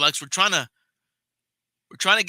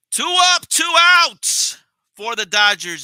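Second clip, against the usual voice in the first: much higher, louder, slow outraged call; exasperated call; 10 semitones higher, 14 dB louder, slower than usual. Real, not acted. Fan streamer groaning at another quick out, loud exasperated call. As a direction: announce it like a disaster.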